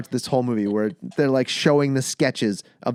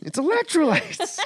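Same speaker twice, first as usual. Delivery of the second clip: dumb guy voice. Retold or imitated. Continues the dopey quote.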